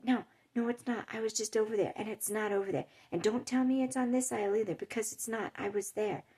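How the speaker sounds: mildly heated mock-indignant shopper; suddenly changed, annoyed. Lady turns on the store worker, mildly angry. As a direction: contradict him firmly, imitating a cross customer. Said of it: "suddenly she just changed, completely changed".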